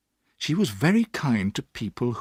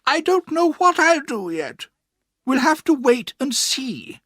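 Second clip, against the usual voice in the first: firm aunt; 5 dB louder than usual. A narrator's reading. Aunt answers the frightened boy firmly. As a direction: settle it without budging. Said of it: "she answered firmly".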